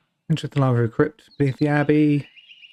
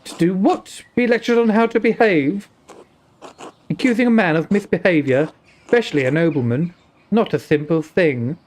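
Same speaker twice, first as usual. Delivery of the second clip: put-on Indian accent. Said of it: "an Indian accent".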